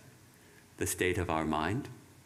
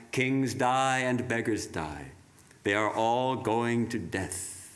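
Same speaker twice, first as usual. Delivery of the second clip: solemn reading; 2 semitones higher, slower than usual. Acted. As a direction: proclaim each phrase with weight. Reads Vivekananda's words.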